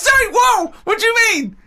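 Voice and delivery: high, incredulous outburst; shocked disbelief; surprised. Real, not acted. Reacting to Carl's story.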